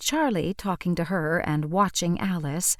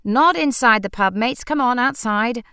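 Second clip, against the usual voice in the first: loud, raised-pitch intervention; urgent calling out; 5 semitones higher, 6 dB louder than usual. A narrator's reading. Liam sending squabbling mates outside, calling out loudly. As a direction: call it out to break up trouble. Liam heading off a pub fight.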